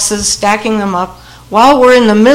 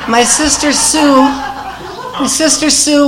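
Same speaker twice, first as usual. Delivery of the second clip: laughing; 6 semitones higher, slower than usual. Real, not acted. Laughing while introducing sister.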